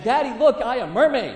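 a hint of a small child calling Daddy; two-year-old boy. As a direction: imitate a little boy proudly announcing himself. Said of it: "he's in the bathtub saying".

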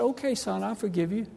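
high, soft little mama's voice; lightly voiced old mother forgiving her son; mother softly forgiving her weeping son, high and hushed; gentle mother.

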